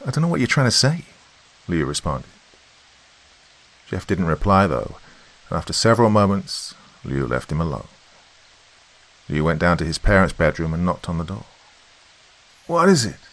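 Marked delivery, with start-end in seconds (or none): 0.1-1.1 much higher, youthful protesting voice; high-pitched protest. A narrator's reading. Liu responds to Jeff, high-pitched protest. Liu answers his brother, distressed. 12.7-13.2 high voiced mother; mother's voice. A narrator's reading. Mother answers a knock at the bedroom door, high voice. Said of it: "the voice of his mother asked".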